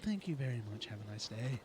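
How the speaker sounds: low, dry sign-off; politely sending someone packing; mock-polite dismissal. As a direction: drop the pitch for a curt, insincere thanks. Sign-off after blocking a bot.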